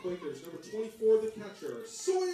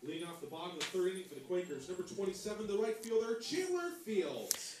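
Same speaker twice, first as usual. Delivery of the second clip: booming PA voice echoing over the field; echoing stadium announcer; 3 semitones higher, 6 dB quieter than usual. Real, not acted.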